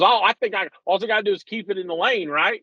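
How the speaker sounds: dad doing his nervous son; imitating his son. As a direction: play the unsure kid asking if Dad means it. Father voicing his teenage son.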